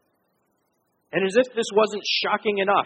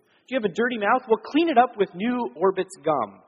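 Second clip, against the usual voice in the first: mock British ad voice; 5 semitones higher than usual. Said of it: "Usually in a British accent, which I can't do".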